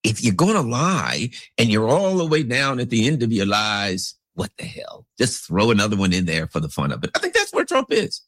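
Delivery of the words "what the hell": breathy whisper, dropping the voice; whispered what the hell. Real, not acted. A whispered aside about lies piling up. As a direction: toss it off in a near-silent whisper.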